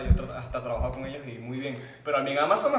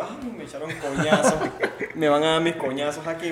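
laughing; 4 semitones higher, 6 dB louder than usual. Retold or imitated. Retelling a scary delivery, laughing.

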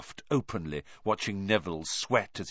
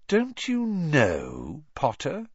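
breathed; 7 semitones higher, slower than usual. Acted. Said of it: "breathed Malfoy".

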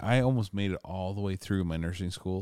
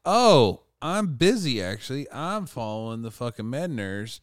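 retold excuse; 4 semitones higher than usual. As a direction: act out begging off from a task. Excuse to teacher acted out.

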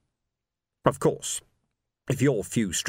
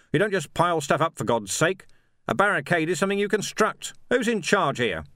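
commanding sergeant; 6 semitones higher than usual. Acted. Vimes addressing the crowd.

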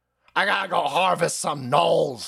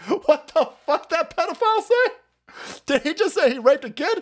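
mock UN delegate; 12 semitones higher than usual. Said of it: "Even the U N's like".

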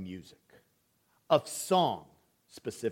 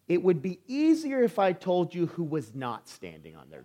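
laughing through the punchline; 2 semitones higher than usual. Retold or imitated. Son's cheeky answer, laugh heard.

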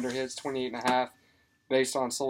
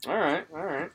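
hushed mock-serious whisper; 3 semitones higher, 3 dB quieter than usual. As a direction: whisper it back. Whispers back to the pick.

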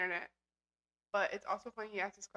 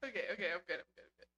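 after laughing hard; 2 semitones lower, faster than usual. Real, not acted. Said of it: "he's dying".

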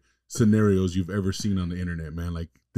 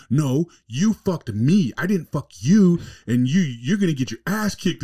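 mock wife insisting; 6 semitones higher, slower than usual. Wife insisting in retold video.

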